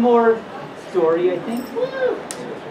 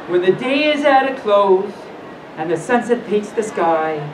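lilting rhymed read-aloud; measured storyteller with swooping pitch; bedtime story reading. Acted. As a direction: read it gently like a picture book.

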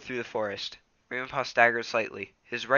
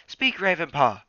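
louder, higher order; commanding leader; 6 semitones higher, 6 dB louder than usual. Acted. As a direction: Bluestar demanding an answer. Bluestar commands.

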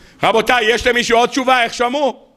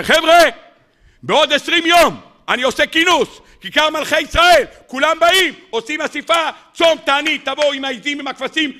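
official's announcement; 6 semitones higher than usual. Retold or imitated. Minister calling the people to a fast, high proclamation. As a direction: announce the assembly to everyone.

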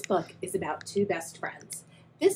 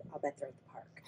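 whisper; 5 semitones lower, 15 dB quieter, faster than usual. Acted. Whispering to child audience.

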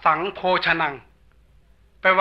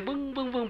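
imitated ear ringing; 6 semitones higher, 13 dB quieter than usual. Monk describes what the deaf arhat hears, droning imitation. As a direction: imitate a humming inside the ear. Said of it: "ได้ยินเสียง".

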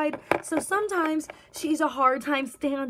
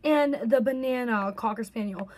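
talking through hiccups; hiccuping between words. Real, not acted. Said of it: "Sorry, I keep hiccuping".

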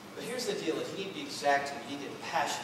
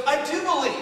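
pained father; 9 semitones higher, 5 dB louder than usual. Acted. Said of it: "Because of all this pain".

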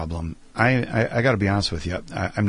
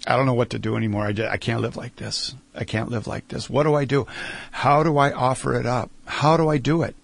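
retold desperate prayer; 3 semitones higher than usual. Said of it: "I just started crying".

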